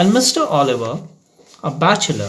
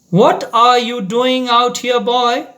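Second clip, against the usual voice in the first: sharp, raised teacher's challenge; 9 semitones higher, 4 dB louder than usual. A narrator's reading. Teacher catching a boy out after dark, sharply. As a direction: snap a question at a pupil out after dark. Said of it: "asked Mister Oliver sharply".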